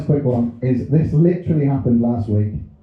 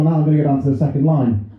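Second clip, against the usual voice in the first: mum's inner voice; faster than usual. Retold or imitated. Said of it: "she's gone".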